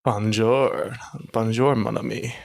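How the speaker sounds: sneering outlaw drawl in French; a light bandit voice; bandit impression. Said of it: "That's my, my bandit impression".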